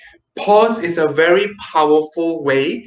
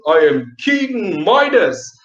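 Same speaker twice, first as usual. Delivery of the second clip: a lightly lower regal king; low kingly voice; slower than usual. Shown as a demonstration. Teacher plays King Midas to show low pitch. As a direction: speak like a proud king. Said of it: "low pitch like a king".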